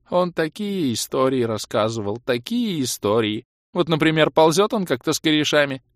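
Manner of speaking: high-pitched, plaintive reminiscing; mournful elf. A narrator's reading. Elf reminisces about his lost helper, plaintively.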